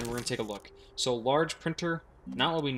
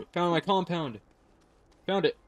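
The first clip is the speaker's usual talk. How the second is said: relieved gasp; 5 semitones higher than usual. Real, not acted. Relief at finding it.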